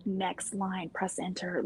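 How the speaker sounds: "Next line, press enter" whispered softly and carefully; whispered dictation command. Shown as a demonstration. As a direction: hush it to the watch, spelling out "Next line".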